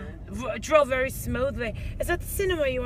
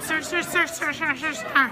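mock panic; 5 semitones higher than usual. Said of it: "In a panic, a damsel in distress".

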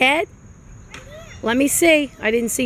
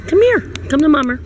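calling out; 3 semitones higher, 4 dB louder, much faster than usual. Real, not acted. Calling baby across playground.

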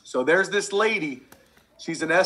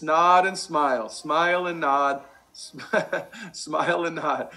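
playful demo. Shown as a demonstration. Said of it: "But the smart ones".

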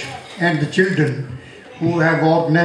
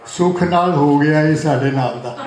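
measured, rhythmic verse delivery; poetry recitation; 3 semitones higher than usual. Acted. Poet honouring a friend turning eighty, rhythmic recitation. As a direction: recite it to the room, refrain lifted on the repeat. Recites birthday poem to audience.

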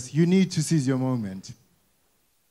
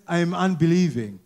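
mock CV boast; slower than usual. Mock CV self-description.

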